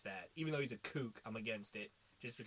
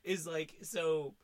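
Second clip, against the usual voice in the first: emphatic; 6 semitones higher, 9 dB louder than usual. Real, not acted. Emphatic hype about Elon.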